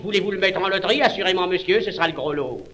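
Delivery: fast, businesslike pitch; practical. Acted. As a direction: rattle it off like a salesman.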